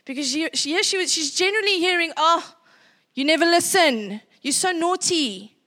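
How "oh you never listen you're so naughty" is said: louder nagging parent scolding. Retold or imitated. Parents scolding their daughter, mock-nagging. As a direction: nag like a fed-up parent.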